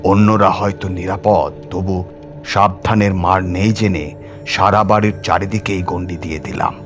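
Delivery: ordinary delivery, nothing marked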